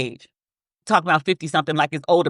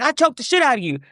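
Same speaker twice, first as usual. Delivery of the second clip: menacing read; 6 semitones higher, faster than usual. Shown as a demonstration. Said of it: "you think it's somebody's being like".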